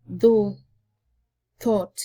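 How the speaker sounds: "though" and "thought" with a careful dental th; th sound demo. Shown as a demonstration. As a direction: model each th word slowly. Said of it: "producing such words".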